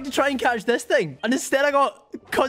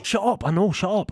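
annoyed. Acted. Snaps back at heckler.

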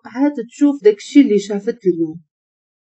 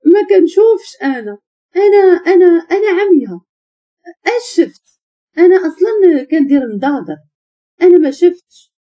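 high, panicky tearful stammer; crying denial; 7 semitones higher, 3 dB louder than usual. Acted. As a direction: plead innocence through acted sobs. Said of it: "سحر كتبكي وقالت".

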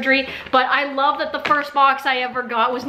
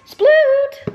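higher name call to the dog; excited call; 10 semitones higher, 4 dB louder than usual. Real, not acted. Owner showing her corgi his first Bark Box, excited call. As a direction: call him over, thrilled.

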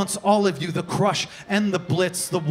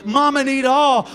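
demand; 5 semitones higher, 6 dB louder than usual. Acted. Her demand, first take.

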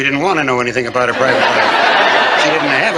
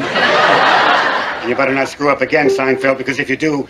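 threatening. Acted. Cop threatening Seinfeld.

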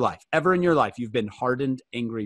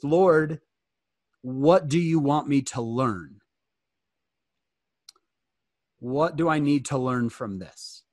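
humble prayer; 2 semitones lower than usual. Acted. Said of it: "Do you see the difference".

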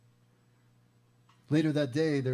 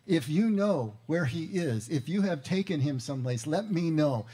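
louder, insistent plea, slowed at the start; firm demand; 4 semitones higher, 5 dB louder than usual. Retold or imitated. Mary demanding the gardener tell her, firm and louder. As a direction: put your foot down, louder. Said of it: "putting her foot down".

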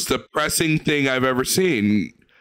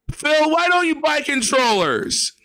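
higher, slow exaggerated rebuke; mock scolding; 11 semitones higher, slower than usual. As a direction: nag Phil theatrically.

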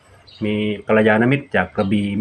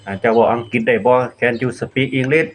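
slow careful question; much slower than usual. Shown as a demonstration. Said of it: "ถาม".

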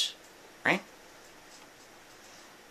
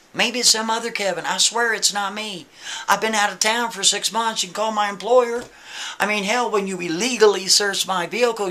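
higher pleading voice, begging the cop; pleading Kevin; 5 semitones higher than usual. Retold or imitated. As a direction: beg the officer to believe you. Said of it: "he's pleading with him".

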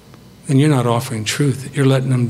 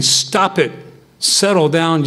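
firm command, pitched higher; commanding the storm; 4 semitones higher, slower than usual. Retold or imitated. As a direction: order the winds to be still. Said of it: "Jesus said in the boat".

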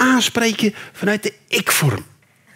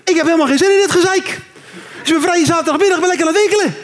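fast, raised scolding; mock angry shopper; indignant rant; 4 semitones higher, faster than usual. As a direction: tell him off at speed. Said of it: "zoiets hebt van".

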